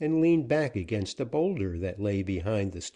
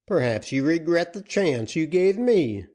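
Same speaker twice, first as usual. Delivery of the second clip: sly outlaw captain; 8 semitones higher, 6 dB louder than usual. Acted. Captain taunting.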